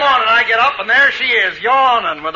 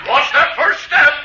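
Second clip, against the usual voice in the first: high, drawn-out holler; called-out warning; 7 semitones higher, slower than usual. Acted. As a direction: call the warning slowly, pitched up. Santa calls warning before falling.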